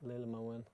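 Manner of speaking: Lillemoen said softly the Norwegian way; Norwegian pronunciation. Shown as a demonstration. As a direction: say Lillemoen as LIL-leh-moo-en, in Norwegian. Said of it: "That's how we say it in Norwegian".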